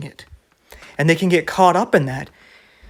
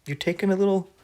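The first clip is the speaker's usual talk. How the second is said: startled backing off; 3 semitones higher than usual. Retold or imitated. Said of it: "and you're like".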